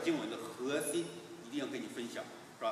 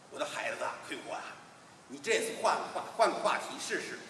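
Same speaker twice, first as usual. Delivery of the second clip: gentle mother; 3 dB quieter than usual. Acted. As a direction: soothe him quietly. Mother soothes son.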